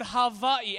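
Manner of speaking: Hawaii with the W said as a V; Hawaiian pronunciation. Shown as a demonstration. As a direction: say Hawaii with a V sound for the W. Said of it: "it's a V pronunciation".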